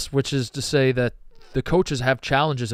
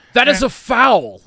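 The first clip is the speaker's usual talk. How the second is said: drawn-out, very slow, high-pitched analyst call; 9 semitones higher, 5 dB louder than usual. Judging a replayed basketball play: Jay Bilas impression. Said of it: "That's my Jay Bilas impression".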